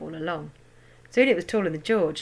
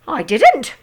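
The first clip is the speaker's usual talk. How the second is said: cackling; 6 semitones higher, 10 dB louder than usual. A narrator's reading. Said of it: "cackled the old woman".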